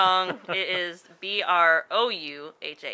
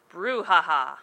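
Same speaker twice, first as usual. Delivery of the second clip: laughing; 4 dB louder than usual. Real, not acted.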